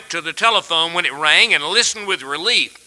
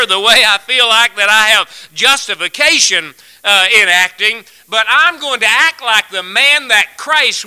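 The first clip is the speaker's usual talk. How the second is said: fervent preaching; 3 semitones higher than usual. Acted. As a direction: drive it home to the congregation. Preacher builds to full force.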